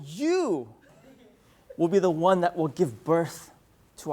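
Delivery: hammed-up solemn drama lead, sinking to a hush. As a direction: woo the wife with mock gravity. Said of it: "my voice gets lowered by three octaves".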